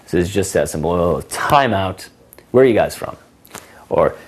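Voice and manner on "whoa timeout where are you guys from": dramatic timeout. Shown as a demonstration. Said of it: "what I call the timeout".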